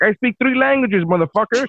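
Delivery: defiant comeback. Retold or imitated. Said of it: "And she's like".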